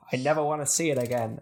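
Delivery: flat line with no emotion; deadpan. Retold or imitated. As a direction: say it without any feeling. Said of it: "no emotion to it".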